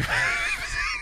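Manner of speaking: very high, airy squeal. Real, not acted. Tired host loses it, high squeal. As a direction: let out a soft high shriek. Sudden silly outburst.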